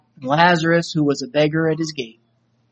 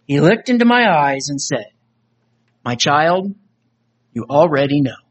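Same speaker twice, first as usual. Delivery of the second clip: earnest spoken-word poem read; recited poem, voices of soul and Jesus; dramatic poem recitation. Acted. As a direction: perform the poem like a testimony. Recites a poem about judgement.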